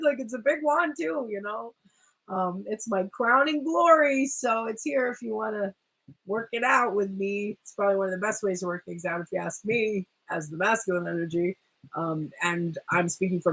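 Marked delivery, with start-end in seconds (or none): 2.7-7.6 higher, swaggering offer; a touch of cocky suitor; mock proud high boast. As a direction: brag about the wand playfully. Masculine boasting of wand.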